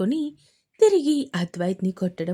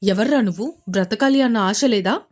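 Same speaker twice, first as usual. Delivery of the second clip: louder, a rough threatening demand; angry challenge; 6 dB louder than usual. Acted. Thug Arun threatens the stranger who hit him, angrily. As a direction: dare him to fight, angrily. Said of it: "కోపంగా అడిగాడు అరుణ్".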